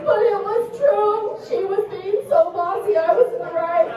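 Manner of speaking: put-on high, tearful child whine; imitated weeping daughter. Daughter defending herself to mom, imitated high weepy whine. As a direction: protest through mock tears. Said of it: "my daughter was weeping at this point".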